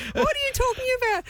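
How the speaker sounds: high, incredulous what are you talking about; imitating the trainer. Trainer scoffing at her client's worry, high mock disbelief. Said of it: "She's like".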